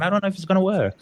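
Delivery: high-pitched self-quote of doubt; retold worry. Recalls worried thoughts on the plane.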